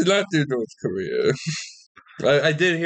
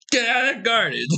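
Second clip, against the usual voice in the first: a lightly Irish, higher call of the phrase; Irish phrase demo; 9 semitones higher than usual. Shown as a demonstration. Demoing slang for a friend, lightly Irish. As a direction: say it like a local in the street. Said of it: "here's one".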